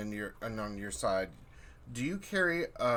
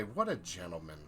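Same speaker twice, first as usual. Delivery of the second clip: talking doll; 6 semitones lower, 7 dB quieter than usual. Acted. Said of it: "you hear Dahl's voice say".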